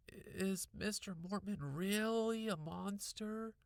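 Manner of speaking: high, slow call down the hall; little brother calling after his sister. A narrator's reading. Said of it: "Randy called after me".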